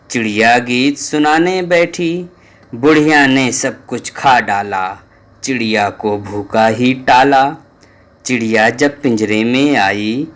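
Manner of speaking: put-on measured sing-song verse for kids; children's poem recital. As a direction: recite the rhyme to the class.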